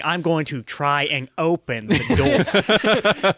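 chuckling while insisting; laughing. Real, not acted.

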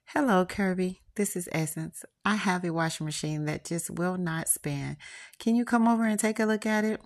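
a light sultry woman's voice, rising at the end; sexy caller. Acted. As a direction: play the flirty customer calling. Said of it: "The sexiest voice I've heard all day responds".

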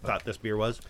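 chewing while talking; mouth full. Real, not acted. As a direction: talk through a mouthful of pretzel. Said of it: "Still eating a pretzel".

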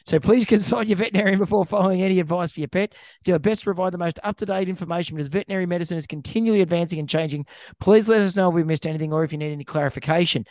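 very fast small-print patter; brisk, rote terms-and-conditions read; rapid disclaimer read. Acted. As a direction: rattle off the legal disclaimer without pausing. Rattles off show disclaimer.

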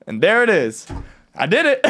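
mock victory cheer; triumphant. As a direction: gloat like you won a bet. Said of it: "Dare just goes".

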